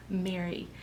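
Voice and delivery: softly spoken name, full of tenderness; tender. Retold or imitated. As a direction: say the name gently, as Jesus to her. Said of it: "his tenderness toward her as he just says her name".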